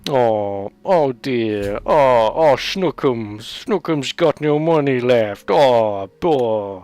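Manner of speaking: hammed-up sympathy, cooing over her; a teasing, overdone comfort for the penniless woman; mock pity. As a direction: coo at her misfortune in exaggerated pity. Mocking pity for robbed woman.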